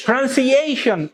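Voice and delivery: প্রনাউন্সিয়েশন with the main stress on the EI of -eishon; primary stress on A. Shown as a demonstration. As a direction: lean on EI in প্রনাউন্সিয়েশন, then fall away. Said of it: "এই এর উপরে".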